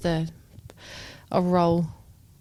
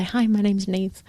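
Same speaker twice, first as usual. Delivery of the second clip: slushy sh for s; slower than usual. Shown as a demonstration. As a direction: mouth guard lisp, slow and slurred. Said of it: "talking with my mouth guard in".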